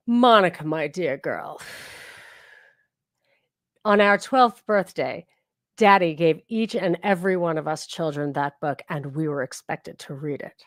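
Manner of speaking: a light mock mid-Atlantic accent, slowed on the birthday; lightly voiced aunt with a Katharine Hepburn accent; a hint of old Hollywood mid-Atlantic accent. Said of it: "I'm not sure I can still do her accent".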